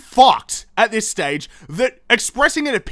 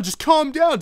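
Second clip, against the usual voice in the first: mock calming; 7 semitones higher than usual. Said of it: "And then you're like".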